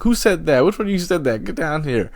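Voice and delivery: high-pitched mock-angry yell; yelling back. Fallen skier to hecklers on the lift, mock-mad yelling. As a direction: re-enact shouting back at hecklers. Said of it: "I was yelling back".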